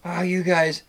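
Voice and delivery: put-on high, loud drunken wail; drunk girl whining. Drunk girlfriend fallen in water wailing at her friends, loud and high. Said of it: "And she goes".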